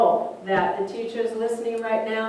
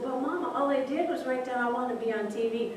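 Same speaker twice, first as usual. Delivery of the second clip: put-on higher, softer child pleading; pleading little boy; 4 semitones higher, 4 dB quieter, faster than usual. Child pleads with his mother.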